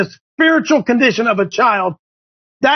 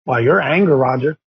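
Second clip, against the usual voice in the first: lower, mock-reproachful "you're angry, Roger"; mock scolding church folk; 6 semitones lower than usual. Host mimicking churchgoers chiding Roger, lightly mock-reproachful. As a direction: mimic a finger-wagging churchgoer. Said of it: "we've taken that and said".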